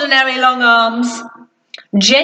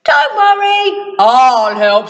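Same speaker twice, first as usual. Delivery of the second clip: lightly voiced Mister Strong. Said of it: "said Mister Strong".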